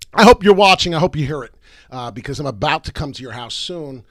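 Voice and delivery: New York gangster warning, loud at first; gangster threat. Real, not acted. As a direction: shout it at the hater, then settle. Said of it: "That's the New York, uh, gangster".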